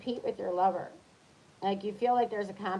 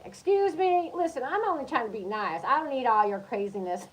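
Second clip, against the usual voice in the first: indignant; 4 semitones higher, 3 dB louder than usual. Retold or imitated. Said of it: "retelling reaction at the door".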